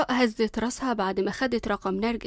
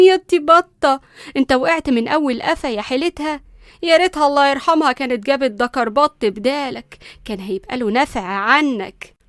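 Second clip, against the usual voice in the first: taunting; 2 semitones higher, 6 dB louder than usual. Acted. Nanny taunting fallen boy.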